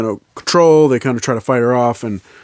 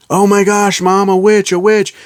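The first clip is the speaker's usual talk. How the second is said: put-on horrified kids; 9 semitones higher, 5 dB louder than usual. Kids horrified at witch mother.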